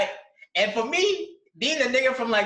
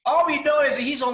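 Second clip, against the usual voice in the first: incredulous retelling; 3 semitones higher than usual. Retold or imitated. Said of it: "I'm like".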